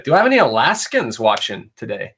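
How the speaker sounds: a hint of an Irish lilt slipping in; slipped Irish accent. Real, not acted. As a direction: let a light Irish accent slip out unplanned. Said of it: "Kinda said that in a Irish accent".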